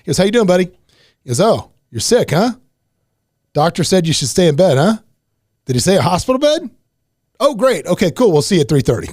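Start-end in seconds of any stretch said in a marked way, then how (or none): 0.2-0.7 high, loud fake chumminess; mock friendly. Supervisor to worker calling in sick, mock-friendly. 1.4-9.1 high, exaggerated fake concern; sarcastic sympathy. Supervisor brushing off a worker's sick call, mock-sympathetic.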